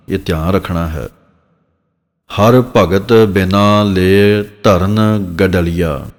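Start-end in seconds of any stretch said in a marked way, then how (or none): 2.4-6.1 slow recitation. Shown as a demonstration. Teacher recites scripture line slowly.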